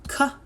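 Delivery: K-oi-ul drawn out sound by sound; slow segmented K-oi-ul; stretched sounds. Shown as a demonstration. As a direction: stretch coil into its parts. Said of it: "Let's stretch it".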